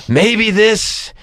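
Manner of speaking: slow, weighted movie-trailer line; Jack Nicholson. Retold or imitated. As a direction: lightly imitate a star delivering the title line. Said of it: "Jack Nicholson going".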